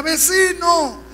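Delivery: high, stretched-out wail; acted crying out. Neighbor in hell weeping to the evangelist, wailing call. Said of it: "el vecino lloraba fuerte, le decía".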